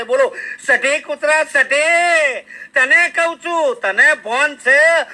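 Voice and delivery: comic dog telling-off; mock scolding.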